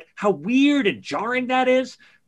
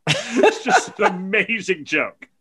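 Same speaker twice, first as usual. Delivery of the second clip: laughing; slower than usual. Real, not acted.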